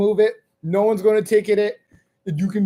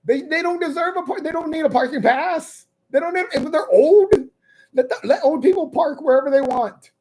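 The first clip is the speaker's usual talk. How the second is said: high indignant outrage; 4 semitones higher than usual. Retold or imitated. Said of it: "And I was like".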